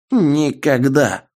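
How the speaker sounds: high, slow defiant shout; old man crying out in defiance; defiant exclamation. Acted. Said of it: "воскликнул дед".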